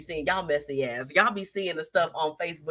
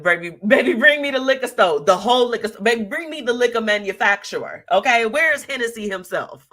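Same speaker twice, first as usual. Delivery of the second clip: hyped-up comment read; 4 semitones higher, 5 dB louder than usual. Retold or imitated. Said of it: "She said".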